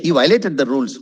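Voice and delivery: violated as "VY-lated"; wrong pronunciation. Shown as a demonstration. Teacher repeating the wrong example, mispronounced. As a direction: leave out the O in violated.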